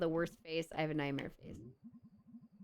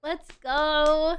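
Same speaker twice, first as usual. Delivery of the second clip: much higher, sweet thank-you voice; cutesy high thank-you voice; 14 semitones higher, 7 dB louder than usual. Acted. Streamer thanking a subscriber, high cutesy voice. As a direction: squeak your thanks up high.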